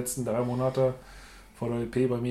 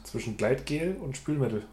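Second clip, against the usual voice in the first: slower, each word spelled out; slow and clear. Shown as a demonstration. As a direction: repeat it slowly for him. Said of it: "Zwischen was?".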